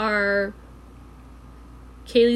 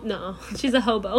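finishing "hobo" through a laugh; 4 dB quieter than usual. Real, not acted. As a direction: say "hobo" fully while laughing. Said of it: "I was trying to say hobo".

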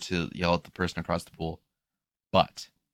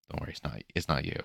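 reassuring; 2 semitones lower, 6 dB quieter than usual. Retold or imitated. Reassuring the lady.

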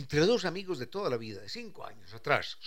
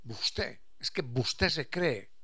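mild imitation of a peasant saying "busted", slowed down; lightly voiced countryman saying "busted qué piensa"; a hint of rural Colombian campesino talk; rural campesino speech; 3 dB quieter, much slower than usual. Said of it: "algunos campesinos todavía dicen".

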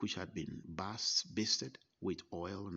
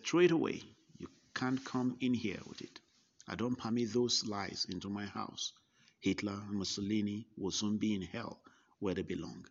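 booming stern rebuke at the door; stern loud command; 3 dB louder than usual. Retold or imitated. Old preacher ordering the visitor to throw away his paper, loud and stern. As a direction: bark it out like a fierce old preacher.

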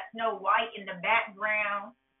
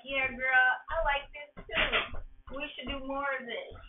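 fake charmer; 5 semitones higher than usual. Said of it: "So he's like".

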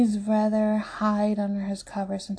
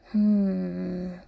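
thoughtful hum. A narrator's reading. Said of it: "Hendrix hums out loud".

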